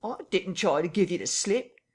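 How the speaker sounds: frightened tramp pleading with his captor; near tears. Acted. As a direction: beg like he might cry any second. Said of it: "in a voice that was not far remote from tears".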